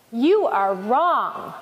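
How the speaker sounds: firm, slow contradiction; arguing. A narrator's reading. Island disputing the willow's claim, arguing. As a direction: contradict them deliberately, drawing out the words. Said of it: "argued the island".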